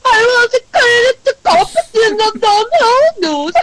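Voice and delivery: put-on high, slow, hollered farmer accent; proper farmer. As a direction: impersonate an incomprehensible country farmer, hammed up. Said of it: "he was, like, a proper farmer".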